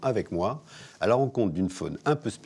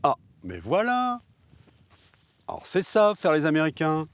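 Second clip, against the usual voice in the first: surprised; 7 semitones higher than usual. Acted. Sudden discovery of the task.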